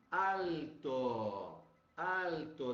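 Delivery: "alto" with a clear, fully pronounced L, not a W sound; a teacher modelling the L in "alto" for students; model pronunciation. Shown as a demonstration. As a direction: say "alto" twice, tongue touching for the L. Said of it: "O L bem assim".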